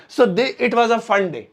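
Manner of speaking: slow, careful reading; slow model sentence. Shown as a demonstration. Teacher slowly models the corrected sentence. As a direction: read the right version slowly. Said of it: "ये अजीब लगेगा उन्हें".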